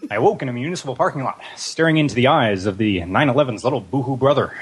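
lightly voiced Hunter S. Thompson; Hunter S. Thompson impression. Shown as a demonstration. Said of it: "Let's hear the voice".

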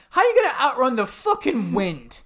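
shouted through laughter; laughing rant. Real, not acted. Podcaster cracks up mocking the movie line, laughing. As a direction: laugh while yelling the question.

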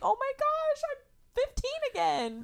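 very high, drawn-out squeal of dismay; hammed-up teen whine at herself; mock teenager. Daughter living with her parents at twenty-three, mock-teen wail.

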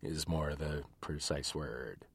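muffled into a teacup; into a cup. Real, not acted. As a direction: speak into a mug. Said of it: "I'm talking into my cup of tea".

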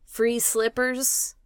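slow, savoring each luxury; drawn-out pampered voice; slow posh dog voice. Acted. Dog Roxy voiced in first class.

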